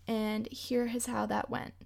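whispered, foreboding aside; hushed teaser for what comes next; ominous whisper. Acted. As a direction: drop to a whisper, like a warning. Ominous setup before the bad night.

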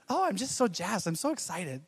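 lightly voiced excited wife; a hint of a bubbly girlfriend; impression of his wife. Husband mimicking his wife's excited gushing. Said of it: "my impression of her".

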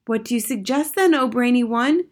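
high, eager witch voices; cried out. A narrator's reading. Witches asking their leader for advice, crying out. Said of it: "they cried out".

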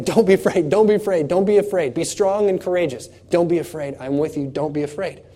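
calm him down with each repeat; fading reassurance. Acted.

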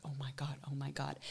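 low, hushed, frightened whisper; scared whisper. Retold or imitated. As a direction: whisper it in fear. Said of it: "I was like".

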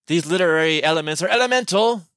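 mock-grand British pronouncement; British accent. District commissioner declaring literary elements elemental, British accent. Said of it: "now speaking with a British".

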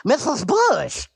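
flustered stammer, tripping on every syllable; star-struck stutter meeting his hero. Acted. Duck stammering at the First Lady in panic.

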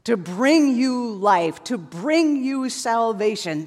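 slow, tender promise; tender God's voice. Retold or imitated. Preacher voicing God's love to listeners, slow and tender. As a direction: speak it slowly like a loving father. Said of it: "Predestination is God saying".

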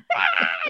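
imitated screaming rug; mock scream. Wife imitates a rug screaming at her, mock scream. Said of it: "it's screaming at me".

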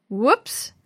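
a sudden startled yelp in a strange voice; alarmed whoops. Acted. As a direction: jolt out the word in surprise. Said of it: "uttered in alarm".

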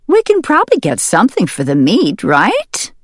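lightly voiced farmer's wife asking. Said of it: "the farmer's wife asked her husband".

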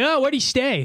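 put-on officer voice; imitated cop. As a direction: play a clueless cop questioning someone. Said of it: "they'll, like, arrest a".

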